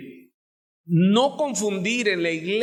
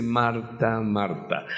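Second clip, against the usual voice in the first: tender call; 7 semitones lower, slower than usual. Retold or imitated. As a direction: call her name gently, like a loving friend. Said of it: "señal de intimidad".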